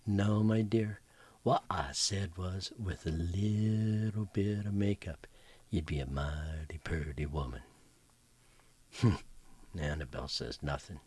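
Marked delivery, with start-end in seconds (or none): 0.1-7.6 syrupy sweet and slowed, the makeup line hushed; sugar-coat the insult; sweetly. Acted. Mary Lou sweetly needling Annabelle over tea, syrupy. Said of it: "smiles sweetly".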